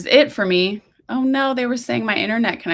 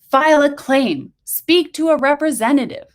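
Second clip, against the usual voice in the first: shouting; 8 semitones higher than usual. A narrator's reading. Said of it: "a mom on the phone shouts".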